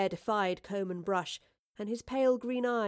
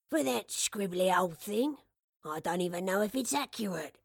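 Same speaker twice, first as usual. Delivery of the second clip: put-on doubtful old shopkeeper. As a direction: question a bad bargain as a puzzled old man. Narrator voices old shopkeeper.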